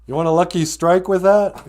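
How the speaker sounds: lightly voiced old grandpa joking; mock-offer a smoke like a gruff old grandpa. Grandpa teasing his six-year-old grandson, lightly voiced.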